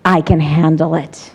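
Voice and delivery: low, steady reassurance; calm affirmation. Shown as a demonstration. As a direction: answer the critic calmly. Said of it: "That's what I tell her".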